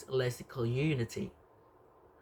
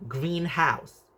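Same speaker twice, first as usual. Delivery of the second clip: "greenhouse" with the stress on green; 3 semitones higher than usual. Shown as a demonstration. Lecturer showing a compound's stress pattern, stress on "green" in "greenhouse". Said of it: "Stress on word green".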